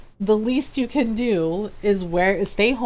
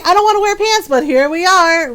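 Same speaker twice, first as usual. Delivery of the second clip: mock exasperated; 6 semitones higher, 6 dB louder than usual. Quoted sign joke, raised voice.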